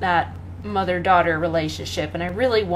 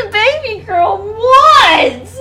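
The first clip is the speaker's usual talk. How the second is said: calling to the cat; 12 semitones higher, 9 dB louder, much slower than usual. Real, not acted. Talking back to the cat.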